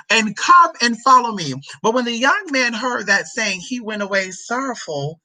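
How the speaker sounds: declamatory scripture delivery; scripture reading. Acted. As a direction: proclaim the verse to a congregation. Reads scripture aloud.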